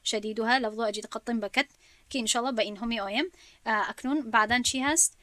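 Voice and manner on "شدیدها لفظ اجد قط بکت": chanting the Jazari verse in measured rhythm; verse recitation. Shown as a demonstration. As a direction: recite it like a memorized tajwid couplet.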